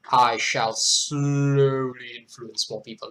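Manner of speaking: drawn-out SLOWLY in a playful scheme; mock scheming. Poet jokes about winning followers, mock scheming. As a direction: stretch slowly like a mock mastermind.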